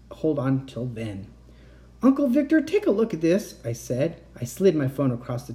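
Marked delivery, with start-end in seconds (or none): 2.0-3.6 urgent. A narrator's reading. Kat urgent calling.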